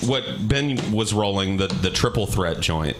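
hollow mic echo, like a big hall; like yelling up from a canyon; echoey. Real, not acted. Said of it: "Yeah, you sound very echoey".

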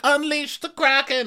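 booming mock epic announcement; dramatic movie trailer voice.

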